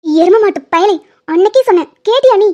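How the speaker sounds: exasperated telling-off; scolding. Acted. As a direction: scold a friend who ignored your warning. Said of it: "அவனை திட்டுற?".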